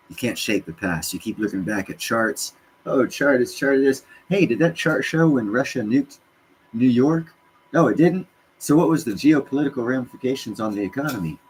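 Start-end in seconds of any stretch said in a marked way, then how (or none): 2.8-11.4 higher, sneering mock of a chart watcher; lightly voiced scoffing know-it-all; mock chart trader. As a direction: parody the nagging chart guy, pitched up. Mocking chart-obsessed traders.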